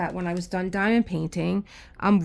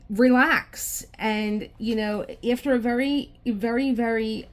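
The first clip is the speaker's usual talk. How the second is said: exasperated; 4 semitones higher, 5 dB louder than usual. Real, not acted. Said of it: "I'm getting really pissed".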